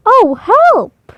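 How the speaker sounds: high, loud alarmed cry; panicked goose. A narrator's reading. The goose cries out in fright at the fox, high and loud. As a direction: squawk it in fright.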